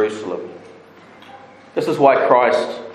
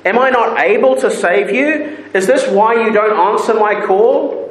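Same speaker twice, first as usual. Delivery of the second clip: pleading God; 9 semitones higher than usual. Acted. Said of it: "He says".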